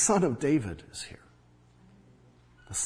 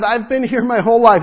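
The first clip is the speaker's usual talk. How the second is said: pleading; 7 semitones higher, 9 dB louder than usual. Pretend. Voicing the blind man.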